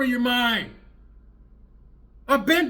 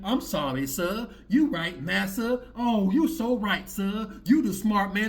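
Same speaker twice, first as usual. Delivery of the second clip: mock apology; slower than usual. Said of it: "coming back and saying".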